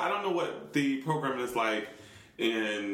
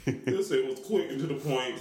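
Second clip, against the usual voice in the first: mouth full. Real, not acted. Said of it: "I have food in my mouth right now".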